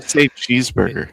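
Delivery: Irish lilt demo. Shown as a demonstration. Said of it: "You can go off the sound of my voice".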